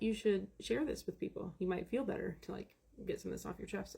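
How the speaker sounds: quiet, coaxing husband's voice; soft husband advice. Retold or imitated. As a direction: gently talk her into sharing. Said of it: "he's like".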